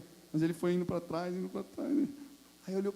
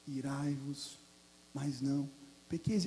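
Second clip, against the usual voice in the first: soft refrain; 4 semitones lower, 6 dB quieter, slower than usual. Shown as a demonstration. Soft quoted scripture refrain.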